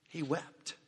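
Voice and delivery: soft, grieving echo of the first line; hushed repeat. Acted. Repeats Jesus wept, much softer.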